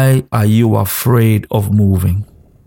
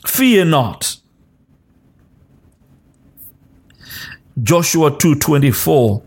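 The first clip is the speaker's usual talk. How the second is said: prophetic declaration. Acted. Pastor declaring God's promises over the congregation, prophetic preaching cadence. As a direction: speak God's comfort over them, phrase by phrase.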